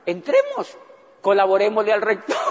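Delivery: mock eager volunteer, a leap up on entremos; hammed-up cheerful offer; eager professor. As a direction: play the keen loyal colleague. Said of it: "Entonces la profesora le dijo".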